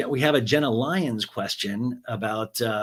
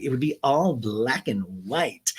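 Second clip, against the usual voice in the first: moody voice. Retold or imitated. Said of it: "her vocal inflection is going up and down".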